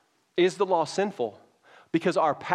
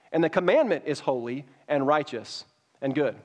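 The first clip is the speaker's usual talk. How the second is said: measured, earnest Bible reading; scripture reading. Acted. Pastor reading Romans to the congregation, earnest reading. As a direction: read the passage to the congregation with weight.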